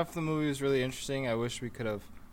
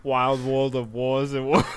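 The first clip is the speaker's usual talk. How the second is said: put-on Austrian accent; slower than usual. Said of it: "in your Austrian accent".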